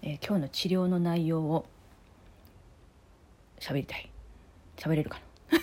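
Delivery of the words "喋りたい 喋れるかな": numb mouth. Real, not acted.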